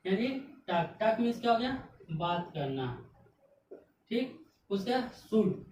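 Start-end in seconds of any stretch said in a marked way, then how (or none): 0.7-1.0 टाक with the L dropped; silent L. Shown as a demonstration. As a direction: say टाक as "taak", no L sound. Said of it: "एल क्या हो गया".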